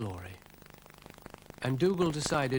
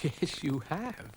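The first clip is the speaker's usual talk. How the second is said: suppressed laugh; 5 semitones higher, much slower than usual. Acted. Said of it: "trying not to laugh".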